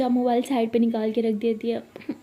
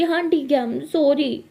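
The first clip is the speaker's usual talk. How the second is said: higher, louder self-pitying whine; milk the self-pity, hammed-up; hammed-up sulky wail to mom; fake weepy drama; 4 semitones higher, 4 dB louder than usual. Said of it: "ये drama क्यों कर रही हो".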